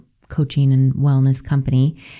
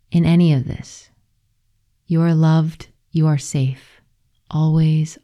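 tender letter reading, unhurried; reading a love letter. Acted. Host reading her journal letter aloud, tender reading voice. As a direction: read it like a blessing to yourself.

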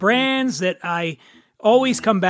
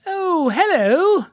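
posh British "Oh, hello" drawn out high; British accent; 11 semitones higher, much slower than usual. Shown as a demonstration. Host showing off his British accent, slow and high. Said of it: "That's my British accent".

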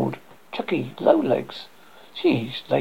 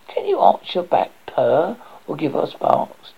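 snooty bored cat; 2 semitones higher than usual. Acted. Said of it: "the cat said".

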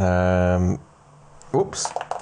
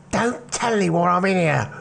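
higher, lightly voiced pleading lad; nervous teen whisper-plea; 11 semitones higher than usual. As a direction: peek out of the crate and beg. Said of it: "and he goes".

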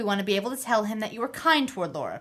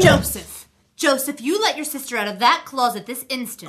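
scolding; 3 semitones higher, 5 dB louder than usual. Acted. Mother scolding son.

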